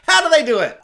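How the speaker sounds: hammed-up astonishment; mock amazement. Real, not acted. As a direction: cry it out in disbelief. Mock amazement, repeated louder.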